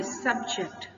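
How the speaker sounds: subject with SUB punched and "ject" lighter; first-syllable stress. Shown as a demonstration. Teacher showing the noun form, subject stressed on SUB. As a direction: hit the start of subject. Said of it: "पहले syllable पर।".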